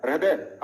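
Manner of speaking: "हृदय" said as "रहदय", र ahead of ह; र sound first. Shown as a demonstration. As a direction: begin "हृदय" with a full र. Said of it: "ये पूरा रे होता है". ("हृदय" में पहले र, फिर ह)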